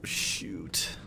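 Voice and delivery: whispered curse. Real, not acted. After killing the Kelpie.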